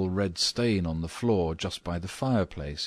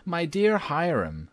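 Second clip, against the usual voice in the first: high, drawn-out appeal to a husband; acted exasperated wife, pitched high; wifely cry; 11 semitones higher than usual. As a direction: exclaim slowly in a high lady's voice. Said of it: "cried Missus Otis".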